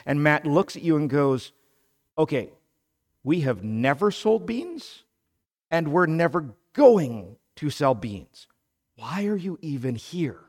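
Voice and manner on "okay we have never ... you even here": louder, incredulous flat refusal; emphatic no. Retold or imitated. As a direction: shut the idea down completely. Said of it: "That's the second no".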